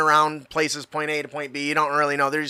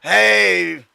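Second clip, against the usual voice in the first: louder, higher, spaced-out stoner; 5 semitones higher, 5 dB louder than usual. Acted. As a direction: greet a half-remembered buddy like a stoner. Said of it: "I gotta put on my stoner voice".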